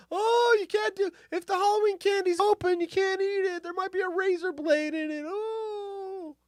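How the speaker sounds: high, whiny mock panic voice; freaked-out parent. Mocking freaked-out parents over Halloween candy, high panicky whine. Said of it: "everyone freaked out".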